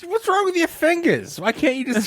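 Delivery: high put-on Laverne and Shirley accent; a Laverne and Shirley accent, pitched well up. Teasing a cohost about scratching with a knife, high Laverne and Shirley accent. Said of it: "It's giving me that accent".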